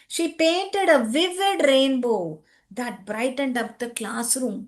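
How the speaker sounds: slow, measured sentence for pupils to copy; teacher dictating at a slow pace; slow dictation. Shown as a demonstration. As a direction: read it out slowly, phrase by phrase.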